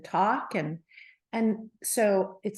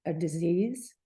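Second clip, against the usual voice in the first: whispered fear; 3 semitones lower than usual. Retold or imitated. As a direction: whisper "a disease" with no voice. Frightened confession to the doctor.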